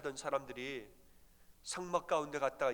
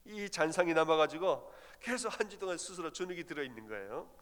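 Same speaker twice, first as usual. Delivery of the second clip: ordinary talk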